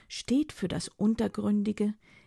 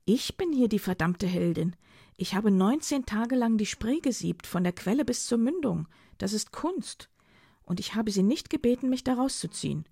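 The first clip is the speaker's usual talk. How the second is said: mildly heated, higher-pitched self-defence; indignant retort; 3 semitones higher than usual. Acted. Philomena rejecting Dido as her rescuer, indignantly. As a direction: assert yourself against his claim, voice raised. Quarrel over who is the hero.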